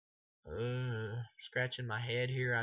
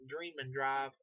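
raised questioning repeat, no shouting; unimpressed echo; 4 semitones higher, slower than usual. Retold or imitated. Reviewer questioning Freddy's lazy line, higher incredulous echo. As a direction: echo the pun back in mild disbelief. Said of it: "And I'm like".

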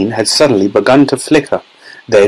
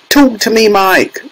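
high, pleading mother; anxious cry; 10 semitones higher than usual. A narrator's reading. Mother begs tiny son to speak, high anxious cry. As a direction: plead for an answer, pitched high. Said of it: "cried Missus T V".

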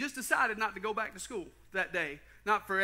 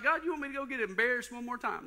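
pleading, pitched-up whine; half-comic exasperation, higher; exasperated complaint to God; 5 semitones higher than usual. Retold or imitated. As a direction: complain to God about being embarrassed. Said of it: "I'm like".

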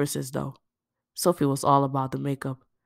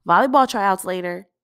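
Dee, casual; 5 semitones higher, 8 dB louder than usual. Acted. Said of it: "the girl said".

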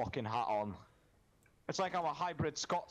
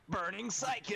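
mock dramatic callout; 8 semitones higher than usual. Calling out enemy name dramatically.

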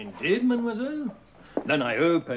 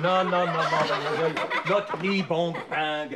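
laughing correction. Acted. Teacher corrects pupil, laughing.

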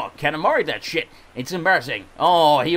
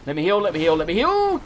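mild panic. Real, not acted. Gamer under attack begging to heal, mildly panicked. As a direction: plead urgently, voice rising on the last repeat.

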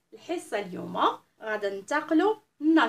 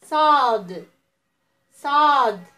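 صاد called out loudly; loud model letter; 2 semitones higher, 8 dB louder, much slower than usual. Shown as a demonstration. Teacher drilling children on the letter. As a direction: belt out صاد for the class to repeat. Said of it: "نعاودوا مع بعضياتنا".

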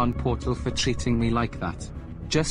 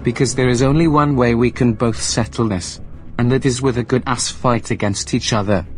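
much louder, threatening rant; angry shouting; 9 dB louder than usual. Acted. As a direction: shout him down and challenge him to a fight. Acted quarrel, threats and challenge.

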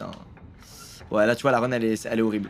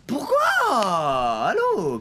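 raging gamer; 5 semitones higher, much slower than usual. Real, not acted. Losing a run to lag.

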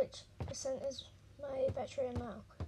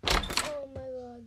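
drawn-out gasp; 9 semitones higher, slower than usual. Real, not acted. Scared by the baby.

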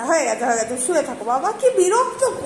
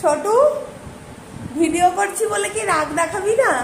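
higher, teasing voice for a sleepy pet; coaxing pet talk; 5 semitones higher than usual. Real, not acted. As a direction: gently tease the pet awake. Teasing the pet to show anger. (পোষা প্রাণীকে আদুরে খুনসুটির গলায় ডাকা)

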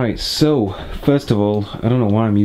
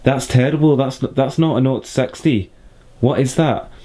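raised-pitch, badly faked Scottish accent; mock a complainer in a terrible Scottish accent; 4 semitones higher than usual. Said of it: "or Scottish accent, those are terrible".

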